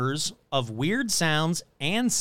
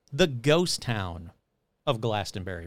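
ominous correction; 7 semitones lower, 3 dB quieter than usual. Shown as a demonstration. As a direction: drag out the ghost town like a spooky twist. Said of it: "Or should I say".

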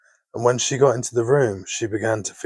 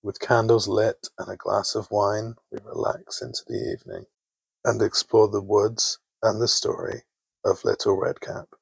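sleep story narrator. A narrator's reading. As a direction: lull them gently toward sleep.

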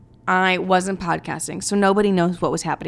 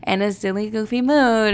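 ordinary talk

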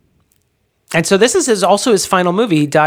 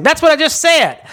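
exasperated judge; 12 semitones higher than usual. Retold or imitated. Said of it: "he's like".

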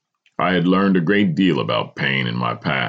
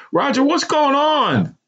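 high, slow, trembling mother; mother on the verge of tears; shaking voice; 4 dB louder than usual. A narrator's reading. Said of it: "the woman's voice shake".

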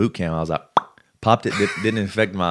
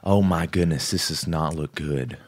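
grandma-like worry; 2 semitones lower than usual. Retold or imitated. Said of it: "reminds me of something my grandma would say".

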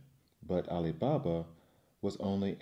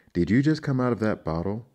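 disbelieving fisherman; 3 semitones higher, 8 dB louder than usual. Acted. Fisherman tricks the genie.

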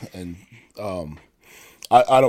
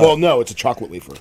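mouth full; 4 dB louder, faster than usual. Real, not acted. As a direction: still chewing, words muffled by food. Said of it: "I'm eating a Nilla wafer".

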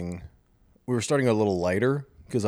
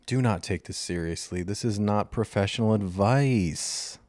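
captain's cabin announcement; pilot voice; 2 semitones higher than usual. Shown as a demonstration. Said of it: "That sound like a pilot?".

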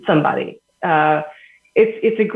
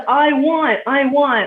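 higher, half-mock toddler whine; whiny toddler; 7 semitones higher, slower than usual. Parent mimicking a toddler's tantrum, high and whiny. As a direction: mimic a small child who wants it now.

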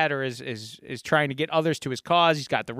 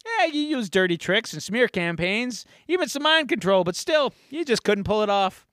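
higher-pitched villain's taunt; mock gloating; 5 semitones higher than usual. Villain rubbing in the election loss, mock gloating. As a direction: needle the loser in a lightly acted, raised voice.

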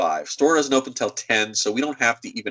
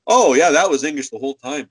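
lightly voiced smart-aleck brain, louder; mock offhand jerk; 5 dB louder than usual. His own brain taunting him late, mock jerk. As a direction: toss it off like a know-it-all, louder.

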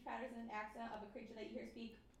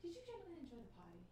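high class lady; 4 semitones higher, 4 dB quieter than usual. Pretend. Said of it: "High class lady".

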